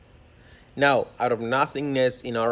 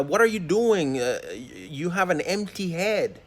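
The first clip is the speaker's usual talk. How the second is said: mild retold scream; 5 semitones higher than usual. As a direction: imitate a furious dad telling off his son, without really yelling. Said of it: "and he screams".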